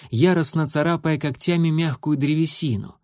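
ordinary delivery, nothing marked

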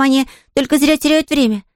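put-on high child's voice, stating it simply; earnest little girl. Girl telling the invalid sleep is wasted, earnest.

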